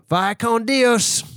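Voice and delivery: high, slow cowboy farewell. Acted. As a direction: drawl the goodbye like a cowboy. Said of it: "this cowboy voice that you did before".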